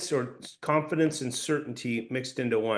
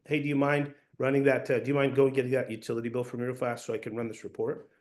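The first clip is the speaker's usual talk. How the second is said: offhand request, as if already agreed; casual, assumptive. Shown as a demonstration. Salesperson moving the sale forward, casual. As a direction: ask breezily, taking the yes for granted. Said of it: "it's in a way just casual tone".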